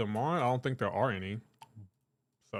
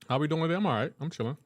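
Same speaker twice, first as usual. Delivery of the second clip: big hall echo; 4 semitones higher, faster than usual. Real, not acted. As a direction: voice echoing through a reverb-heavy mic. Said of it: "Sorry about the reverb".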